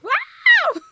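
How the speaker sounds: high, loud wow with a laugh; real thrilled squeal; excited laughing shout. Real, not acted. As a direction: shriek it in delight. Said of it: "I'm so excited".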